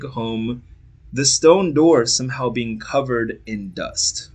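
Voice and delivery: epic fantasy narrator. A narrator's reading. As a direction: set the scene like a legend.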